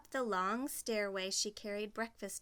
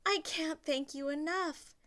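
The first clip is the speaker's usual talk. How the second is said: grateful; 7 semitones higher than usual. Acted. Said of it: "she told all the birds".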